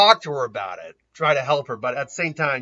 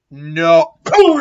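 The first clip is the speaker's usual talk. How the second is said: sharp shout then a loud boom; 11 semitones higher, 9 dB louder than usual. Acted. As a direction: bark the no, slam the boom. Naruto's counterattack, loud.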